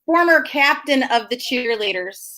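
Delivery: laughing through the words; teasing laugh. Real, not acted. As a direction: tease her while laughing. Teasing about cheer captain.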